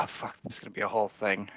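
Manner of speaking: quick, hushed aside to an ally; whisper. Acted. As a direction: mutter it fast under your breath. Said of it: "I whisper to Ashrina".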